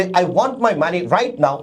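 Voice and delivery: very slow, "right" stressed; teacher reads the example slowly. Shown as a demonstration. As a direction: draw out "I want my money right now". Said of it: "যেমন আমি যদি বলি".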